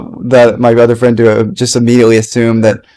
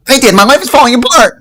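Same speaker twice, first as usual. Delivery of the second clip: mock despair; 11 semitones higher than usual. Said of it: "I'm doing the wrong emotion".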